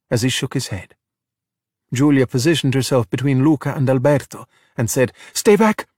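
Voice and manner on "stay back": high-pitched, urgent warning; warning cry. Acted. Giulia stands between Luca and Alberto, warning. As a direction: warn it off firmly, pitched up. Girl shields friend from monster.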